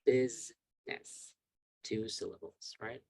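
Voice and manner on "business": Business stretched slowly and loudly into two beats; slow syllable drill. Shown as a demonstration. Teacher drilling the class on syllables, slow and loud. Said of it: "So there are two syllables".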